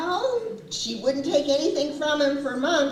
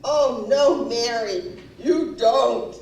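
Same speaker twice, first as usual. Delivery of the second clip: loud, emphatic mimicked denial; acted husband's protest; 6 dB louder, slower than usual. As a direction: play the stunned husband refusing to believe it. Voices husband's shocked denial.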